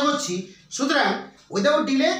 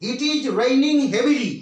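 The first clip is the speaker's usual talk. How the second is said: slow dictation; much slower than usual. Shown as a demonstration. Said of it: "প্রথমে আমি এক number বলতে পারি".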